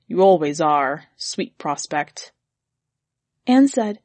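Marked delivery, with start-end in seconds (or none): 0.1-2.3 dark mutter. Acted. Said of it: "he said darkly".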